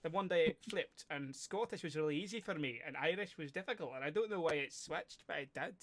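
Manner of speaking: lightly performed Scottish brogue; chatty, put-on Scottish; Scottish accent. Shown as a demonstration. Switches between Scottish and Irish demos.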